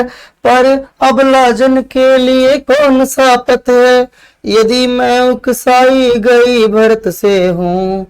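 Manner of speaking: dramatic, measured verse reading with wide swings; poem recitation. Acted. Teacher reciting Kaikeyi's lament to students, dramatic verse. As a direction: declaim it like Kaikeyi pleading.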